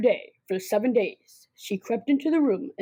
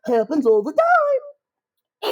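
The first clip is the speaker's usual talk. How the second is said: dismissive adult; 11 semitones higher, 4 dB louder, much slower than usual. Acted. Teacher dismissing the complaint.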